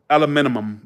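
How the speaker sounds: "aluminum" as al-uh-MIN-uh-mum; attempted British pronunciation. Shown as a demonstration. Unsure copy of London friend, "aluminum" stressed on MIN. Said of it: "She said something like that".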